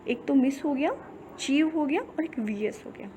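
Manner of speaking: breaks मिस, चीव, वीएस apart one by one, the last part almost whispered; syllable breakdown. Shown as a demonstration. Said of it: "three syllable है इस". (मिस, चीव, वीएस को अलग-अलग टुकड़ों में बोलना)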